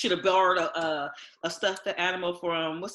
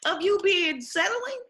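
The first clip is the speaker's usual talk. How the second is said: mock disbelief; 14 semitones higher than usual. Friend mocking a woman's embarrassment, high disbelief. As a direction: scoff at it from way up. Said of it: "I'm like".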